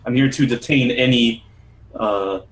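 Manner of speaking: lightly voiced official, deliberate pace; lawman character, formal. Townsman announces his errand to adventurers, lightly voiced official. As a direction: state your business with careful authority.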